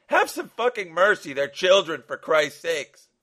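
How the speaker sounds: high, loud desperate plea; crying out. Acted. Father begging for his children, loud anguished outcry. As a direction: shout for mercy, frantic. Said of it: "Mark cried out".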